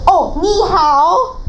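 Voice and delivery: slow mocking greeting with a laugh; drawn-out teasing "ni hao"; imitating classmates. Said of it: "they're like".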